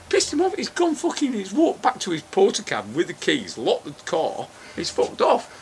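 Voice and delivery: retold disbelief. Teller scoffs at the machine's question, incredulous. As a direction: throw the words back in disbelief.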